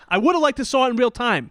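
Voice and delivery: high, amused reply through a laugh. Real, not acted. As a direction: answer while cracking up. Laughing reply to offer to watch.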